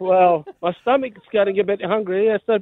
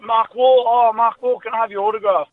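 put-on a touch of a starstruck seven-year-old begging; starstruck kid; 4 semitones higher than usual. Man retelling how he begged a cricketer for an autograph, lightly eager. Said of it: "I was starstruck".

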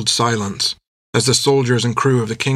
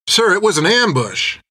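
high pleading protest; 8 semitones higher than usual. A narrator's reading. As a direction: plead with the captain. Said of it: "protested Art".

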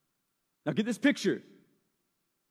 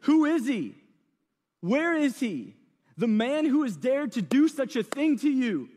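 indignant king; 3 semitones higher than usual. Retold or imitated. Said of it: "King Xerxes asked".

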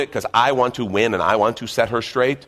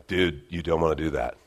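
Southern California surfer; 5 semitones lower, 3 dB quieter than usual. Acted. The Spirit cautioning an arguing husband, lightly voiced Southern California surfer. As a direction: play a mellow Southern California surfer, low-key. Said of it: "sounds like a Southern California surfer".

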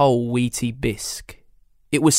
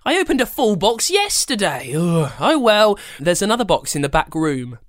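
grandma voice; 7 semitones higher than usual. Acted.

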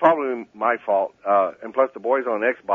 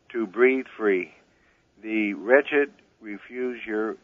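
reciting a famous poem slowly and carefully; slow poem recitation; slower than usual. Real, not acted. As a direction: draw out each line like a recited verse. Caller recites Statue of Liberty poem.

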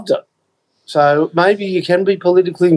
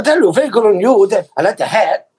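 lightly imitated Chinese-accented shopkeeper; a quick, higher salesman's Chinese accent; 5 semitones higher than usual. Shopkeeper selling a sombrero to a staggering customer, mock Chinese accent. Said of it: "doing my Chinese accent last week".

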